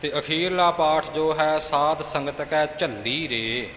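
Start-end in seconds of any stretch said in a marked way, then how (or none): 1.6-3.7 ਝੱਲੀ pressed firm and weighty with a held double l; a slow, weighty ਝੱਲੀ with the doubled l held; tight and heavy. Shown as a demonstration. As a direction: say it slowly and heavily, leaning on ਝੱਲੀ. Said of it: "ਇਹ ਕੱਸ ਕੇ ਕਰਨਾ ਹੈ, ਭਾਰਾ ਕਰਨਾ ਹੈ".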